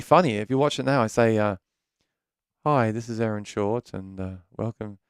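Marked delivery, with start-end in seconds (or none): 2.7-5.0 imitating his shy, soft old intro; soft-spoken. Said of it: "I talk really soft".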